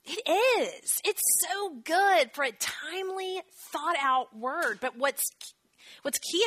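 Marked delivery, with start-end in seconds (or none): 0.1-4.8 gushing delight. Real, not acted. Gushing over favorite verse.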